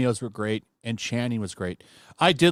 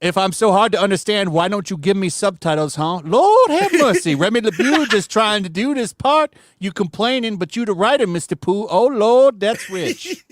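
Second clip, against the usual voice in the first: lightly voiced exasperated character, higher on the exclamations; Gambit; 4 semitones higher than usual. Reading out Gambit's complaint to the writer, lightly acted indignation. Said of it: "Gambit saying ridiculous stuff".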